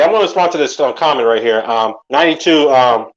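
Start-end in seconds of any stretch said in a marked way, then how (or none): 1.6-2.7 talking with food in mouth; words round a bite of food; mouth full. Real, not acted. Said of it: "I have food in my mouth".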